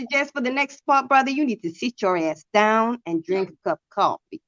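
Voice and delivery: put-on Southern scolding; Southern accent. Woman telling brother to sit down, put-on Southern accent. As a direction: tell him off in a Southern accent. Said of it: "My southern accent is pretty good".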